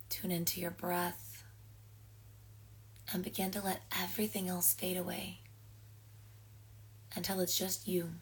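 calm settling-in guidance with long pauses; guided meditation. Acted. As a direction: ease listeners into rest, pausing between phrases.

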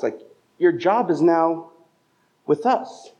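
a boss puzzled his worker went elsewhere; perturbed new boss. Retold or imitated. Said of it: "your new employer would be a little perturbed".

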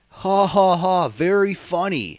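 high, loud, slow mocking heel voice; Baron Corbin. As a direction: sneer it out like a smug heel. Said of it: "He's, like, total, like".

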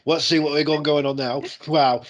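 lightly voiced excitable TV host; playing up a daytime TV host; hammed-up TV host. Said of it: "He's like".

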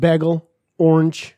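"Bagel" as "beggle", "orange" as "ornch"; squashed Florida vowels in "Bagel, orange"; Florida accent. Retold or imitated. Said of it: "what's a Florida accent?".

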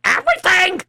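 high, astonished disbelief; can't believe his ears; amazed question. Acted. Trader astonished at the brother's inheritance, high amazed ask.

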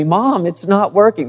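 mild imitation of a frustrated child; frustrated third grader. Third grader complaining to Mom about his project, lightly frustrated. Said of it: "in the voice of little third grade Jeremy".

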